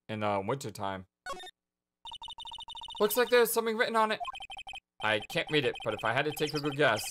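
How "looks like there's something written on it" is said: put-on perky girl voice. Perky sidekick voice.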